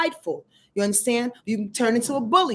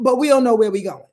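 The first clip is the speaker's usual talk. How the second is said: confused Neptune; 8 dB louder, faster than usual. Retold or imitated. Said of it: "is what Neptune is saying".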